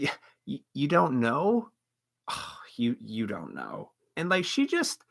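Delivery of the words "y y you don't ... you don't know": fading, pitying "you don't know"; condescending. Retold or imitated. Retold customer pitying the waiter for not knowing, condescending.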